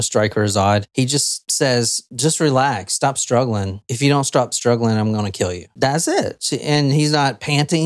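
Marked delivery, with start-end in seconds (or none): 2.1-5.7 low, level, eerily calm threat; calm, collected. Acted. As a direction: killer soothing his captive, coldly calm. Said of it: "In a very calm, collective voice".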